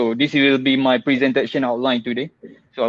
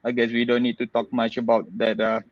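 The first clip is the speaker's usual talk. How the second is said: muffled behind a mask; talking through a mask, slightly muffled; through a face mask. Real, not acted. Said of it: "please excuse my mask".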